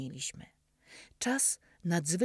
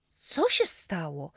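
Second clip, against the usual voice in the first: louder, slower alarmed asking; alarmed question; 5 dB louder, slower than usual. Acted. Boy runs to his limping friend, alarmed question. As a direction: rush over and ask what happened. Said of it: "podbiegłem złapać go pod ramię".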